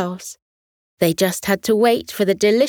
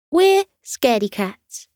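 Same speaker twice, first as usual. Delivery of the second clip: shy cat voice; 5 semitones higher than usual. Acted. Cat confesses being timid.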